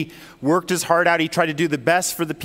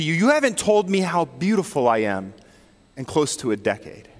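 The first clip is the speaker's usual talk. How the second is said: hurt wife; 4 semitones lower than usual. Retold or imitated. Wife confronts husband, hurt.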